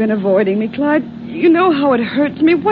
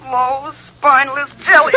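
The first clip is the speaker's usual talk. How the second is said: mounting taunt. Acted. Girlfriend's words returning more insistently in his head, taunting. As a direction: build the echo into a taunt. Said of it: "Ellen's words ring in his ears".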